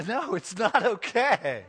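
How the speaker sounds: loud, high, drawn-out protest; emphatic objection. Shown as a demonstration. Preacher correcting his audience's habit, loudly emphatic. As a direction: hammer each word out, slow and loud. Emphatic answer to own question.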